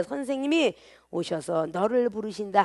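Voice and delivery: low, softened message; quiet, discreet. Acted. Martha privately calls her sister Mary, quietly. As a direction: pass it on quietly, just to her. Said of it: "가만히 그 형제 마리아를 불러".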